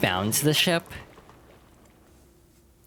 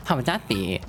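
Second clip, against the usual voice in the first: lightly voiced blustering bargainer; 2 semitones higher than usual. Bargainer threatening to toss the gem, mild bluster. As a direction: cut in, alarmed, then bluff.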